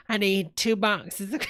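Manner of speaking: "I need two boxes of" shouted out; shouting. Pretend. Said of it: "shouting the request again".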